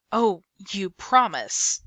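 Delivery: sarcastic lawyer repeating her promise. Acted. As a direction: drag it out with scorn. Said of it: "he responded sarcastically".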